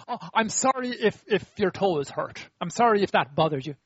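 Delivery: insincere, conditional sorry; wrong-way apology. Shown as a demonstration. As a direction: act out a non-apology, leaning on the if. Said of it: "I'm gonna say sorry the wrong way".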